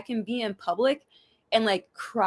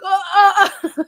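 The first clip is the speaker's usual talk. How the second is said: high, loud flustered gasps; startled by a dripping nose; panicked oh oh; 10 semitones higher, 8 dB louder, slower than usual. Retold or imitated. Telling a friend about the wedding, high flustered gasps. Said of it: "I literally was like".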